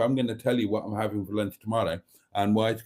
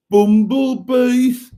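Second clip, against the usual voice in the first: loud, high, drawn-out Black Country accent; 13 semitones higher, 12 dB louder, much slower than usual. Shown as a demonstration. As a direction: belt it out slowly in broad Black Country. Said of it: "a Black Country accent".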